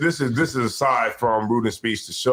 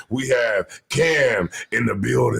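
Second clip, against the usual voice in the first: hype shout; slower than usual. Real, not acted. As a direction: stretch it out and shout the name. Hype intro announcing show guests.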